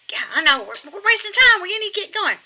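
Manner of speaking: put-on high, loud impatient old lady puppet; squeaky ventriloquist dummy. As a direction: rush him along as the granny puppet. Puppet hurries him along.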